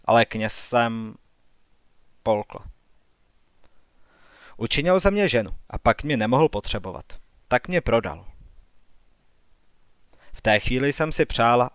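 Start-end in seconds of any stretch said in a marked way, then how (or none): none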